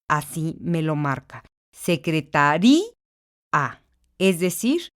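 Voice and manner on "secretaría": Secretaría said se-cre-ta-RÍ-a, stressed í split from a; broken diphthong. Shown as a demonstration. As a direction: stress the í in Secretaría so the a is a new syllable. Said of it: "tengo que romper el diptongo". (Secretaría con hiato, í tónica)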